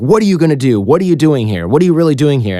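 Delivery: mock interrogation, mildly heated; mildly angry questioning. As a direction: imitate an interrogator firing questions, pitch lifted at each start. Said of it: "started to get really angry".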